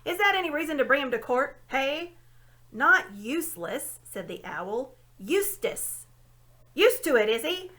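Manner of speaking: put-on loud, high old dwarf grumbling and reminiscing; a cranky old dwarf lecturing the owl; grumpy old dwarf. A narrator's reading.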